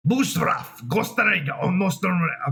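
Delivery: gibberish in a mock German accent. Testing a dictator impression, mock German accent. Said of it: "let's see what I can do with this".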